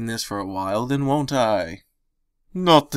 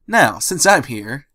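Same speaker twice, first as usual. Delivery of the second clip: cheerful; 3 semitones higher, 5 dB louder, slower than usual. Acted. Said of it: "she said cheerfully".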